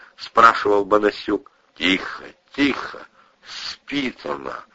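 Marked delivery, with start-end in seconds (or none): 1.8-4.6 put-on soft, slow drunken mumble. Drunk cousin quieting the husband, soft slow drunken voice. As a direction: hush him like a drunk. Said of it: "совершенно пьяным голосом".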